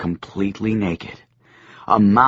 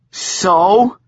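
grinning Joshua; 8 semitones higher, 5 dB louder than usual. A narrator's reading. Joshua echoes with grin.

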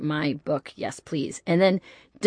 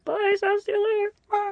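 calling goodbye. Pretend. Calling goodbye while leaving.

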